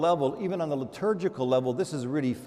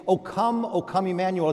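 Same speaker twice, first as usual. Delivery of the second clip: pleading hymn line; 3 semitones higher than usual. Acted. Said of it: "We say".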